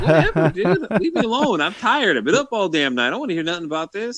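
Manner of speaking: a tired husband telling her to leave him alone; a dozing husband brushes off his wife with a mock annoyed outburst; grumpy retort. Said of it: "Ah, I'm like".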